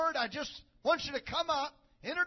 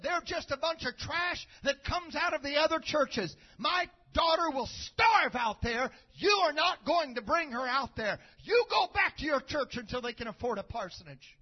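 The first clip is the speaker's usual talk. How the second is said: angry mother-in-law; 2 semitones higher, 5 dB louder than usual. Retold or imitated. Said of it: "She said".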